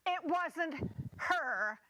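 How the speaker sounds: put-on valley girl. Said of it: "only talk like Valley Girl".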